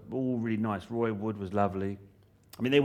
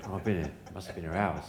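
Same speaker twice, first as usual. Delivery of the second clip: laughing sigh; 3 semitones lower, 3 dB quieter than usual. Retold or imitated. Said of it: "you go like".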